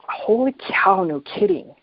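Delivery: sudden high-pitched amazement; a jump up in pitch on "no kidding", genuinely struck; amazed realization. Retold or imitated. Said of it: "and I thought".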